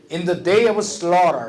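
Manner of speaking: slow repeat. Shown as a demonstration. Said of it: "repeat after recording".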